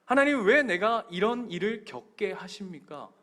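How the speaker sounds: mildly reproachful appeal, retold; acted resentful complaint. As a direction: plead "why me" as if to God. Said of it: "하나님 앞에 원망하실 때".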